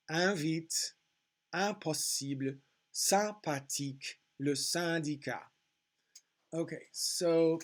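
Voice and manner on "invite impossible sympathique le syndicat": "invite, impossible" leaning on the opening nasal IN; French words, first nasal vowel emphasised. Shown as a demonstration. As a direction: stress the nasal vowel in "sympathique, le syndicat". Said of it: "emphasizing the nasal vowel sound".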